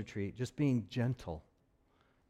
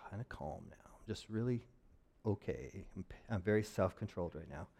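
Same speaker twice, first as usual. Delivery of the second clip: much softer, tight forced calm; 6 semitones lower, 10 dB quieter than usual. Pretend. Pastor playing someone pretending to be calm, forced soft calm. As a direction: fake calm through held-in anger. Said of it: "It's like".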